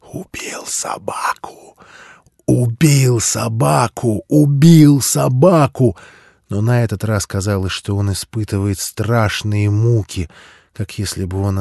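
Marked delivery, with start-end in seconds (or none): 0.1-6.0 slow anguished chant, whisper rising to a cry; tormented, from a sobbing whisper to a wail; laughing into sobs. Acted. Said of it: "смех аутсайдера перешёл в рыдание".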